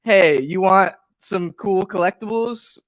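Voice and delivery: slow, slick scam pitch; sketchy ad voice. Retold or imitated. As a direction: read it like a dodgy pop-up ad. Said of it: "it was just".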